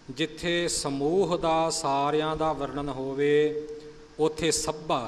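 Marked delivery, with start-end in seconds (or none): 4.5-5.1 ਸੱਭਾ with a firm doubled middle consonant; doubled pronunciation. Shown as a demonstration. Teacher explaining the rule, ਸੱਭਾ said with doubling. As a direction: press on the middle of ਸੱਭਾ, sabb-haa. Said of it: "ਸੱਸੇ ਉੱਪਰ ਅਦਕ ਲਾ ਕੇ".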